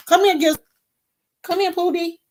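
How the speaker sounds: high sing-song call to the dog. Real, not acted. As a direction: coax the dog over in a high voice. Calling the dog over.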